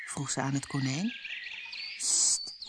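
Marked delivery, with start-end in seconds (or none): 2.0-2.5 breathy whispered shush; whispered hush. A narrator's reading. Rabbit hushes Alice in a whisper. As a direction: hush her urgently. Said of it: "fluisterde het konijn".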